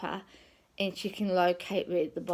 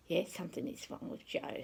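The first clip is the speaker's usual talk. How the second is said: whisper; 7 dB quieter than usual. Retold or imitated. Replying to her inner voice.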